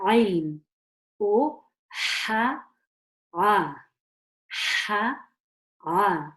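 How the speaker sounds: "ain" squeezed from mid-throat, "ha" breathed, "ah" with a throat catch. Shown as a demonstration. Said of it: "from the middle of my throat".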